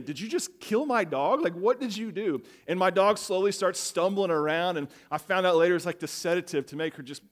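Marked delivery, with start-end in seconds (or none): 0.0-2.4 higher, louder mock panic at the vet; retold shock. Owner to vet, mock alarmed disbelief. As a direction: act out the alarm of thinking your dog was just killed. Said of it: "I'm sitting here thinking".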